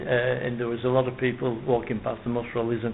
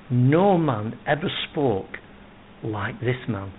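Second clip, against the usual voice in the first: awed reply; slower than usual. Retold or imitated. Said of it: "But they replied".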